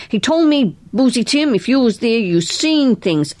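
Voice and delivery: mock Willie's insistent questioning; old mechanic imitating his boss grilling him; quoting the boss. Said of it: "Boozy Tim said".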